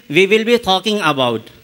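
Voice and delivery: lightly imitated Australian accent. Shown as a demonstration. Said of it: "But he is saying".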